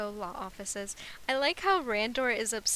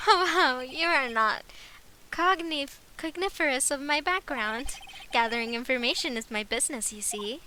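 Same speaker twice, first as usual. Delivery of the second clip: villain voice for that guy; 3 semitones higher, 4 dB louder than usual. Acted. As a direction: savor each word like a smug crook. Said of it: "I'ma keep that voice".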